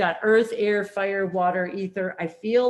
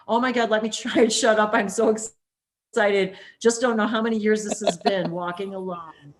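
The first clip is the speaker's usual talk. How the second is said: excited; 4 dB louder than usual. Retold or imitated. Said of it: "even Monica says".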